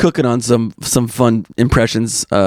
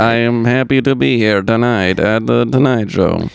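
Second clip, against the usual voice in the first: Martin Lawrence impression; 2 semitones lower than usual. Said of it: "your famous Martin Lawrence impression".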